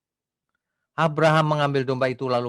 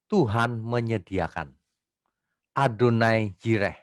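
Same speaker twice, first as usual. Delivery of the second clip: normal talking voice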